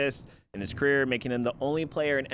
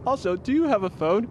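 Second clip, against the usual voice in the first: retold Homer line; 8 semitones higher, 4 dB louder than usual. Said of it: "He goes".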